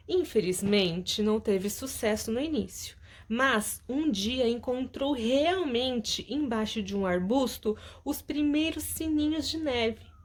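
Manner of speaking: storytelling voice for the class; lively read-aloud of a children's story. Acted.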